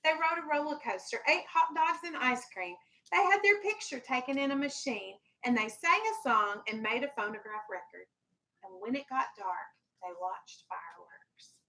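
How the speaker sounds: gentle storybook read-aloud for a class; lightly voiced picture-book reading; reading to children. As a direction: read it like story time on the rug.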